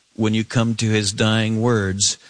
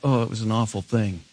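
mock sentimental lament; 4 dB quieter, faster than usual. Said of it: "we don't just merely sentimentalize it".

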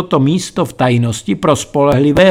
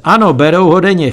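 fast, higher, louder mocking chuckle; cackling reply; 5 semitones higher, 4 dB louder, faster than usual. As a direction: rattle it off with a smirk. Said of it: "chechtal se parťák".

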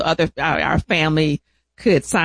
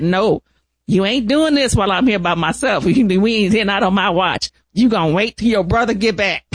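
higher-pitched, insistent refusal; retold mock scolding; 3 semitones higher than usual. Caregiver alone with the patient retells refusing him, mock scolding. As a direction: lay down the law, half in fun.

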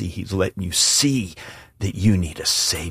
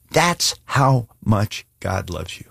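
slow emphatic repeat; 2 semitones higher, slower than usual. Shown as a demonstration. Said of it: "I want you to hear me".

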